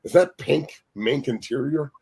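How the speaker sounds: retold incredulity. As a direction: query it slowly, as if baffled. Retells questioning Larry's odd car interior.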